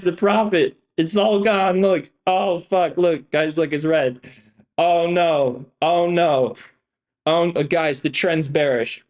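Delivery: fake-freak out for the viewers; mock panic. Pretending to panic to viewers about red trades, hammed-up alarm. Mocking panic over a bearish trend.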